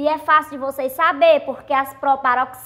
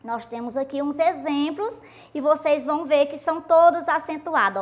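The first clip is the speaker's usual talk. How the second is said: normal talking voice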